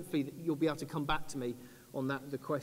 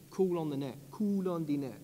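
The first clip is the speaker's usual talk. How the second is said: put-on reggae singer accent. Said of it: "he did it in a reggae singer accent".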